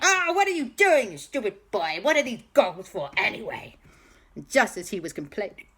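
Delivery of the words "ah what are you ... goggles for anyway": high, loud indignant villain outburst; Balthazar Brat. Acted. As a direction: squawk in annoyed protest. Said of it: "Balthazar Brat went".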